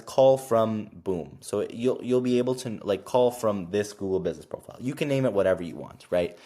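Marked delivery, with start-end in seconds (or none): 0.0-1.4 very slow, flat robotic announcement; automated whisper message. Shown as a demonstration. The software announces the call to him, slow robotic prompt. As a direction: read it like a machine prompt before the call connects. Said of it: "it basically says".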